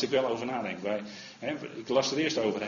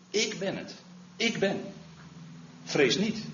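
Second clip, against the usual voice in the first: the Lord speaking; 8 semitones higher than usual. Acted. Voicing the Lord's words.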